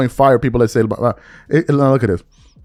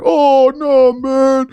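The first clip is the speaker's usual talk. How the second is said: mock accusing fan; 7 semitones higher than usual. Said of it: "He doesn't make the Lakers better".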